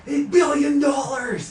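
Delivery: drawn-out high loud gasp of disbelief; shocked exclaim. Real, not acted. Reacting to a huge fortune on screen, stunned slow cry. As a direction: stretch it out, stunned by the number.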